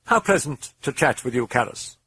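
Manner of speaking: high, pleased demon voice; smug demonic pleasantry; grinning demon. A narrator's reading. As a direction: purr it with a grin. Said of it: "said the demon, grinning".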